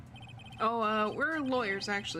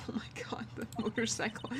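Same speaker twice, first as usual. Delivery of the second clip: whisper; 6 dB quieter than usual. Real, not acted. Whispering at first sight of room.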